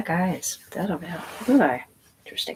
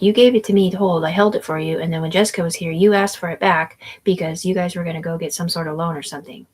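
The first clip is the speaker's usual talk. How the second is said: retold protest; 6 dB louder than usual. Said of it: "I was like".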